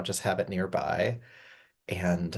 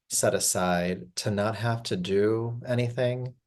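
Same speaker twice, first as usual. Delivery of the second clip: calm, unhurried guiding voice with long pauses; gentle yoga nidra guidance, even and spacious; guided meditation. Acted. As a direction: ease them into rest, phrase by phrase. Leads a yoga nidra rest.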